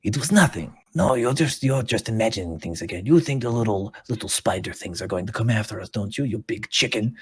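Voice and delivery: lightly voiced scoffing character, lively rise and fall; mocking bully creature. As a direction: taunt a jumpy companion in a light character voice. Game master voices a creature.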